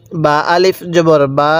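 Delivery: slow spelling chant, last "বা" stretched; drawn-out vowel. Shown as a demonstration. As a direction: hold the final বা long. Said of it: "এতটুকু টান দিবেন".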